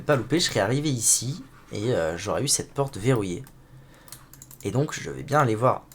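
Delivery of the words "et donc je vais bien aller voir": throaty, catching voice; frog in throat. Real, not acted. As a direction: talk through a frog in the throat. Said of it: "j'ai un truc dans la gorge".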